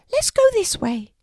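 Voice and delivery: very high, squeaky mouse voice; tiny mouse. A narrator's reading. Mouse asking Archie for help, high and squeaky.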